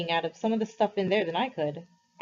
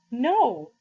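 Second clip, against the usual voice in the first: loud, higher shouted no; boy screaming no at his friend; screamed; 5 semitones higher, 5 dB louder than usual. A narrator's reading. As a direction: yell it at him. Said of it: "I screamed at him".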